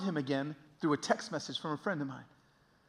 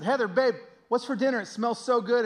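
raised, higher voice calling to wife; 8 semitones higher, 7 dB louder than usual. Retold or imitated. Husband looking for his wife at dinnertime, calling out. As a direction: call cheerfully through the house. Calls to wife around the house.

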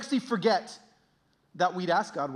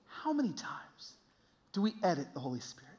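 hushed question; 8 dB quieter than usual. Real, not acted. Preacher drops for a solemn question.

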